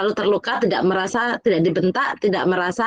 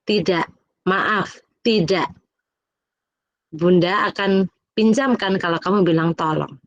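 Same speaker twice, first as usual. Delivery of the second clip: firm but polite refusal; 2 semitones lower, slower than usual. Retold or imitated. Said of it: "Terus saya bilang".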